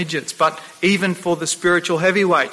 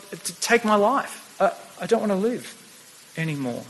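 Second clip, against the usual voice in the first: despairing plea; 2 semitones higher, 5 dB quieter than usual. Acted. Elijah begging God to die.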